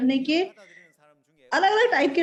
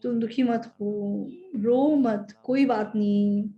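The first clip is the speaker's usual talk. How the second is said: gently console, lower and unhurried; consoling; 4 semitones lower, slower than usual. Acted. Mourners comforting a widow who lost her son, gently consoling. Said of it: "इसको console करना चाहते हैं".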